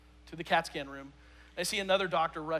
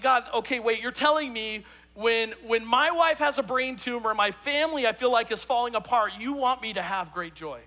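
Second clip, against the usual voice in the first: mock indignant protest; 4 semitones higher, 4 dB louder than usual. Retelling his complaint to God.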